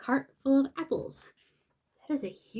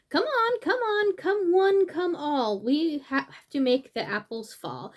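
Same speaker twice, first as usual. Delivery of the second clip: higher, eager character voice; storybook animal voice; 4 semitones higher, 5 dB louder than usual. Acted. Animal urging friends down the hall, high and eager. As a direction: urge your friends along, bright and high.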